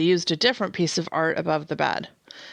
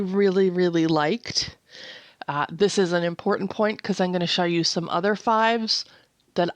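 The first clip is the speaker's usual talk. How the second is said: breathless while talking; short of breath. Real, not acted. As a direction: talk a little out of breath. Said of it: "sorry, I'm kinda short of breath".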